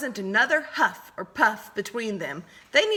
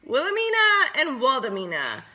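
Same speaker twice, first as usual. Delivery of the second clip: twittering; 5 semitones higher than usual. Acted. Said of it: "they twittered with their dainty prance".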